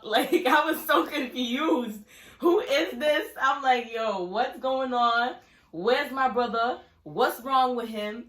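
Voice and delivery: loud, high, slow bewildered cry; shocked confusion. Retold or imitated. Sister seeing her swollen-headed brother, loudly bewildered. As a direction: reel back in disbelief.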